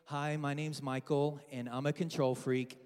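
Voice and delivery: low, subdued support-group introduction; mock confession. Pastor introducing himself to the congregation as a control freak, mock confession.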